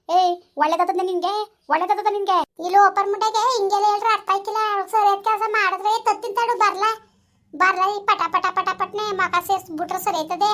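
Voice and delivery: menacing, slowing at the end; angry threat. Acted. Mother-in-law threatening to beat the girl, angry and deliberate. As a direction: threaten a beating, spitting each word.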